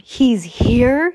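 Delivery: through gritted teeth, loud and high; forced out through clenched teeth. Acted. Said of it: "through his gritted teeth".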